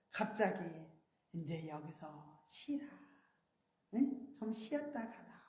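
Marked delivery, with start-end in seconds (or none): 1.3-5.3 gentle divine voice. Retold or imitated. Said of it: "그 음성이 들리면서요".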